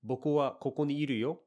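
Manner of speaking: informing with a lift on the end; with emphasis. Shown as a demonstration. Teacher demonstrates yo as an exclamation, emphatic. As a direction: tell them something new, with a little punch. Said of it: "giving new information".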